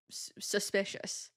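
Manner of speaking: slow, breathy whisper of suspicion; hushed, slow, mock-ominous; whispered suspicious. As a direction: whisper it like a conspiracy. Joking the makeup looked suspicious.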